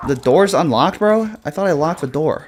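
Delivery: scared horror game streamer. Real, not acted. Zombies getting inside.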